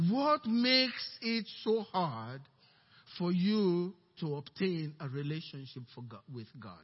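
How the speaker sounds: solemn question. Real, not acted.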